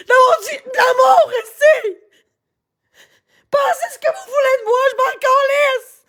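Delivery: tearful yelling, voice cracking with sobs; crying while shouting. Real, not acted. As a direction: shout it through real tears. Tearful rant at online critics.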